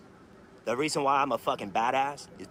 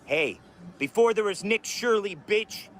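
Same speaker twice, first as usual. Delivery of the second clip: defiant shout; 3 semitones higher, 4 dB louder than usual. Real, not acted. Angry rant at rival.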